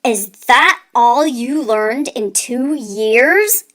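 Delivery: slow, disbelieving scold; a scolding uncle, slowed and scornful. Acted. Uncle scolding his nephew's slow progress, scornful.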